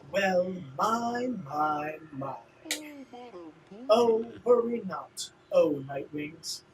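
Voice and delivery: lightly voiced theatrical rival, mock-gracious; slighted rival. Rival chiding the Nightwings, lightly theatrical mock-gracious voice. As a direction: play a wounded, condescending rival.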